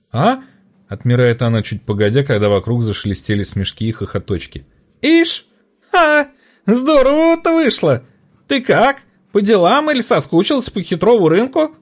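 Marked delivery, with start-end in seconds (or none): 0.1-0.4 high startled huh; a dazed market woman; confused trader. A narrator's reading. Market woman coming to, high and startled. 5.0-11.8 high, loud, delighted trader's voice; a raucous old trader laughing it off; cackling market woman. A narrator's reading. Market woman delighted to see the boy, high and loud. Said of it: "рассмеявшись визгливо".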